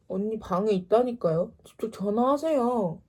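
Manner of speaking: insistent, mildly annoyed retort; irritated. Retold or imitated. Student telling sister's ex to call directly, irritated. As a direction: push him off with exasperation. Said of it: "너무 열받아가지고".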